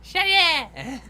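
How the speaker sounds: high yell. Retold or imitated. Echoing mom's yell.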